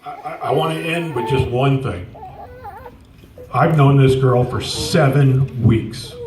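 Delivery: real tears, words slowed and thick; fighting back tears as he speaks; voice breaking. Real, not acted. Emotional tribute, crying heard.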